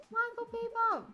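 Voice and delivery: name yelled high and loud like a game show host; big hyped-up introduction; announcer shout. Acted. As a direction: belt out the guest's name to the crowd. Host announces guest loudly.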